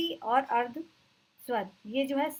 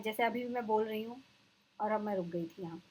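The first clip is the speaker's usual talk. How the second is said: a short deliberate stop between "हूँ" and "और"; pause demonstration; 3 dB quieter than usual. Shown as a demonstration. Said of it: "जो हम बोलते वक्त बीच में रुकते हैं".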